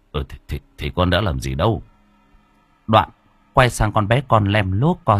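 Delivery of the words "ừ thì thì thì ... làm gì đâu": flustered. Acted. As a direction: trip over the words, embarrassed. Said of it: "Bác Mạnh bối rối". (lúng túng, lắp bắp)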